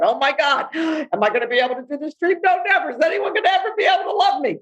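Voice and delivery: rising from a gasp into a high, fast, near-shouted panic; anxious self-doubt spiralling into a mock wail; panicky inner voice.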